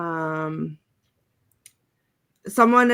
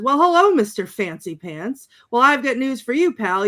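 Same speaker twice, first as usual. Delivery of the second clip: lightly acted cocky comeback, hello pitched high; mock swagger; 4 semitones higher, 5 dB louder than usual. Ash answers Henry the Red, mock swagger. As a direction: swing into a mock cocky greeting. Acting out Ash's cocky retort.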